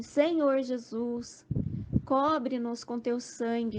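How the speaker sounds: slow, drawn-out plea to Jesus; lightly voiced fervent prayer, stretched out slowly; retold prayer. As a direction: ask for protection slowly, a touch of fervour. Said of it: "Eu falava assim".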